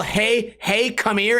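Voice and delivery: ordinary talk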